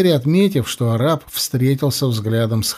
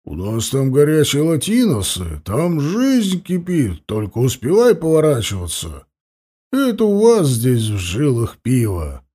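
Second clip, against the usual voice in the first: put-on giggly drunk. A narrator's reading. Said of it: "пьяно засмеялся Сосновский".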